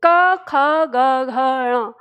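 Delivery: क ख ग घ ण crisp from the throat; firm recital of क ख ग घ ण; clear throat sounds. Shown as a demonstration. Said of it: "ऐसे बोलते हैं".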